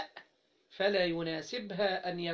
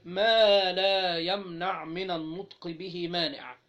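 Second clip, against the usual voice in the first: slow dictation; 4 dB louder, slower than usual. Shown as a demonstration. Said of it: "فعايز الشيخ يقول إيه".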